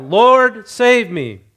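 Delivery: loud, high cry for help, acted; mock desperate shout, falling at the end. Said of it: "And he cried out".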